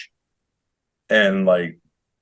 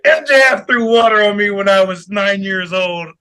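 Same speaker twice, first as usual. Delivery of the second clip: put-on imagined kid wrestler; 4 semitones higher than usual.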